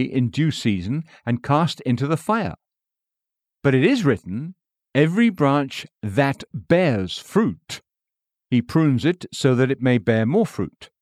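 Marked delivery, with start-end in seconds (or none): 4.9-10.9 "bears fruit" drawn out slowly; slow down and dwell on "bears fruit"; stress on bears fruit. Shown as a demonstration. Preacher reading the verse, slowing on "bears fruit". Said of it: "Emphasis added".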